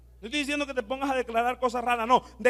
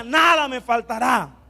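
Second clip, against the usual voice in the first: congregation call; 4 dB louder than usual. Shown as a demonstration.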